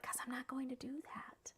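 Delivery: breathy hushed refusal; whisper. Retold or imitated. Whispering her refusal to her husband. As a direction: whisper it firmly.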